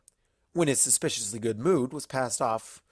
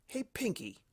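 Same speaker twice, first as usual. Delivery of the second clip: blunt; 12 semitones higher, 8 dB quieter than usual. Acted. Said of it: "he said bluntly".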